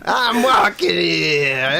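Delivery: put-on slow shouted New York accent; bad New York accent, shouted slow. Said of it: "that bad, uh, New York accent".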